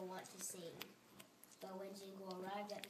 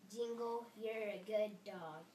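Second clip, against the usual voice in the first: louder, fuller take; louder read; 6 dB louder than usual. Shown as a demonstration. Child rereading the line louder for the parent. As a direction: give the line more voice. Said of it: "Say it again".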